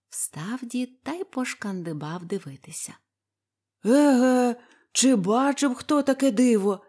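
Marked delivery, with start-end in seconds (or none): 3.9-6.8 delighted surprise. A narrator's reading. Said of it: "зрадів несподіванці".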